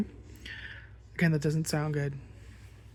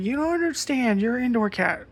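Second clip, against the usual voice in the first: higher, exasperated scolding; lecturing the cat; 5 semitones higher than usual. Retold or imitated. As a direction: lay down the law to a pet.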